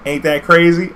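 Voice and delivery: a hint of a showing-off girl; proud girl. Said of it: "she's like".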